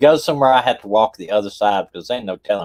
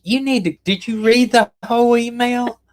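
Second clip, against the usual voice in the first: much higher, a disbelieving squeak; incredulous retort; 14 semitones higher than usual. Retold or imitated. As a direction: act stunned by the question. Husband retells confused reply.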